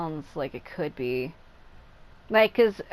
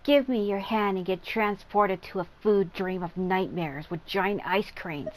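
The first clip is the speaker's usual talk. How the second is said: reading her lines in a put-on voice. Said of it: "She's like".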